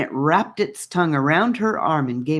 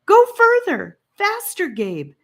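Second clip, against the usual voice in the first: panicked urging; 8 dB louder than usual. Acted. Annika panicking in chase.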